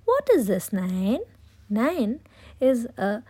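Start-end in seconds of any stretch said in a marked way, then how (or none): 0.1-1.2 put-on child voice. Grandchildren ask grandma.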